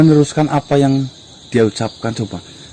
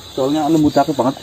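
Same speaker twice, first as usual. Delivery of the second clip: talking around a cigarette; cigarette in mouth. Real, not acted. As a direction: speak with a cigarette between lips. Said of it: "Ini saya sambil merokok".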